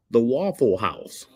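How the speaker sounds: over-enunciate it like a mock Caucasian; drawn-out, careful white-guy accent; Caucasian impression. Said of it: "best Caucasian impression you got".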